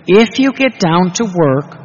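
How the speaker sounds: slow, loud and weighty; emphatic quote. Acted. Preacher quoting Jesus to a struggling priest, slow and loud. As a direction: press each word like a promise.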